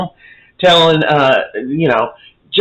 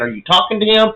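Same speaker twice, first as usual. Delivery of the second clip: mildly acted angry questioning, higher voice; going off on her; 6 semitones higher, faster than usual. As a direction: fire off retold accusations, a touch heated. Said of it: "he's going off on her".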